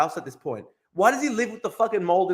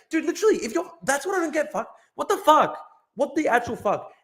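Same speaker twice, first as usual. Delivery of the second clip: incredulous outburst; 11 semitones higher than usual. Real, not acted. Incredulous rant at streamer.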